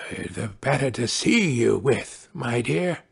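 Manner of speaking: a hint of coaxing wolf; wolf as grandmother. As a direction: soothe slyly as the false grandmother.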